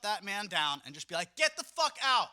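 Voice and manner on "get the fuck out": sudden high, loud get-out shout; mock telling off. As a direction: throw him out with a bark. Imagined telling off a guest.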